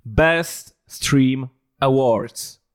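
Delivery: very slow drawn-out American announcer; American accent. Pretend. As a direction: stretch it like an American awards host. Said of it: "Powiedz to z amerykańskim akcentem".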